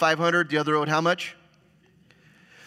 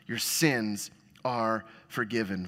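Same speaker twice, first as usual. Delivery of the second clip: tender, slow; 4 semitones lower, 3 dB quieter, slower than usual. Retold or imitated. Jesus turns to her.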